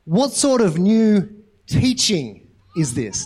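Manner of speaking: very slow, spaced-out question, timbre put on; deliberate question. The people's weird response to the healing, slowly quoted. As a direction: draw out each word of the crowd's reaction. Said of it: "But their response is".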